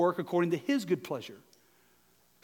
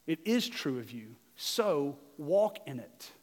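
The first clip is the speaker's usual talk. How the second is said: soft earnest urging; 4 semitones lower, 6 dB quieter than usual. Real, not acted. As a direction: lower and softer, slow on "so walk in it". Preacher drops voice for emphasis.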